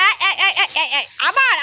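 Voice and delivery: laughing through the words; can't help laughing at the soaked shoe. Real, not acted. Mother laughs as the child splashes at the tap again.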